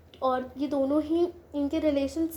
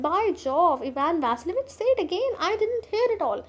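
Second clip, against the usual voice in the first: a delighted, higher burst, slowing at the end; overjoyed; 4 semitones higher, much slower than usual. Acted. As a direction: sound thrilled by the news. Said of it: "बड़ा खुश सा हो जाता है".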